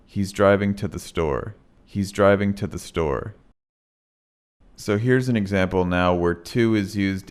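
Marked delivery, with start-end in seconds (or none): 0.1-1.6 "to" blurred into a quick t; reduced to. Shown as a demonstration. Teacher modeling reduced "to" for students. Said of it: "it sounds like t". 1.8-3.4 "to" blurred into a quick t; reduced to. Shown as a demonstration. Teacher modeling reduced "to" for students. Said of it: "it sounds like t".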